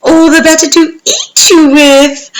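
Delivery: high, loud syrupy menace; wolf oozing sweetness before pouncing; very sweet wolf. Acted. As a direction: savour the trap closing. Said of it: "very, very sweetly".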